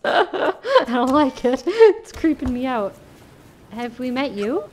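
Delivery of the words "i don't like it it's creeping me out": laughing. Real, not acted. Creepy empty place.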